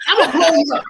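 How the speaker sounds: a hint of the gushing club owner; mother's voice. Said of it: "I do his mother's in voice".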